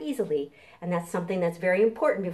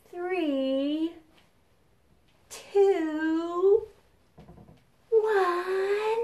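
countdown climbing higher toward launch; 8 semitones higher, much slower than usual. Pretend. Librarian counting down for the kids, building excitement. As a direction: count down slowly, building to liftoff.

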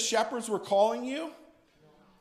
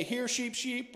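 shepherd's call; 5 semitones higher, 4 dB quieter than usual. Shown as a demonstration. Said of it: "if you just wanna say".

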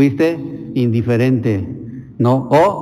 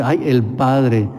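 drawn-out exclamation; much slower than usual. Retold or imitated.

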